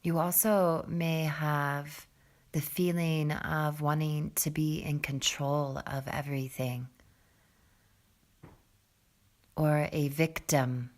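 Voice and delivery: calm, soft meditation voice with long pauses; guided meditation. Real, not acted. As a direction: settle them gently into the breath, low and unhurried. Leads a seated breathing meditation.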